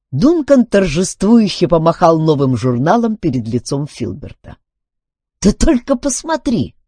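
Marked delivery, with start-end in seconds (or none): 5.4-6.8 high, louder jubilant cry; exultant exclamation. A narrator's reading. Duncan waves the new magazine at Filbert, exultant. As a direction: show it off in triumph. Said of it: "ликуя воскликнул он".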